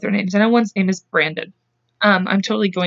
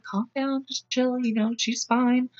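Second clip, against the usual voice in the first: soft, higher-pitched placating voice; retold soothing; 3 semitones higher, 8 dB quieter, slower than usual. Sharon calming the dad down, softly soothing. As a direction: quietly talk someone down, slowing at the end.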